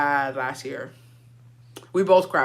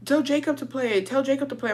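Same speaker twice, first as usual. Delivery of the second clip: put-on pleading kids; 7 semitones higher, 4 dB quieter than usual.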